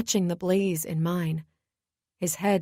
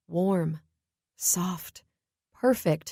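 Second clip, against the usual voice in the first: whispered; much slower than usual. A narrator's reading. Sensual kiss narration.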